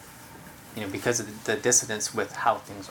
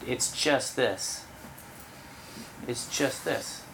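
calm soft repetition; 6 dB quieter, slower than usual. Shown as a demonstration.

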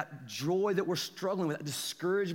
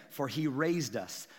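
"raised" drawn out slowly; slow, deliberate weight on "raised"; stress on "raised"; 3 semitones lower, slower than usual. Shown as a demonstration. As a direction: lean on "raised" as already done. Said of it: "Doesn't say he is going to".

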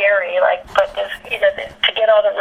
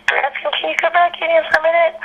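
calling out; 8 semitones higher, faster than usual. Retold or imitated. Casting people calling him back.

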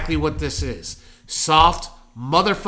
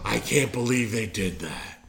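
mock gasping outrage; 4 semitones lower, 5 dB quieter than usual. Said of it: "An outrage is where you're like".

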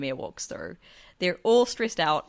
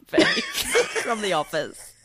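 laughing punchline; much slower than usual. Real, not acted. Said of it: "punchline joke".

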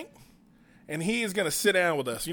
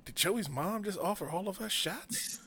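stunned murmur; 3 semitones higher, 10 dB quieter than usual. Retold or imitated. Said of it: "everybody just sitting there like".

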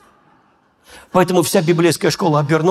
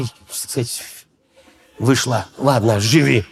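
disappointed God; 3 semitones lower than usual. Retold or imitated. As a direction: shrug it off, a touch of divine disappointment. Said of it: "так смотрит и думает".

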